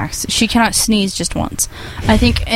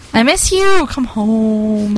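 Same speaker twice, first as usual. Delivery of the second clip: mock pleading; much slower than usual. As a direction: beg dramatically. Pleading to absent friend.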